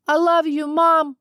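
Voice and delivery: loud, high cry of love; shouted. A narrator's reading. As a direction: call it out across the distance. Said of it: "I shouted".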